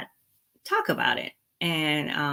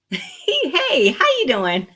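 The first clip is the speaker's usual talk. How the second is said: bursting into a laugh, much higher and louder; laughing greeting; 6 dB louder, much slower than usual. Real, not acted. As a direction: greet them mid-laugh, giggly and bright. Laughing greeting interrupts herself.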